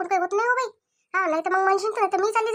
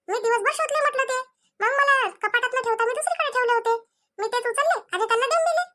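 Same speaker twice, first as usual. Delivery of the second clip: higher, rushed self-defence; defensive excuse; 3 semitones higher than usual. Acted. Pari defending herself to Mohini about the gold pot, pitched up.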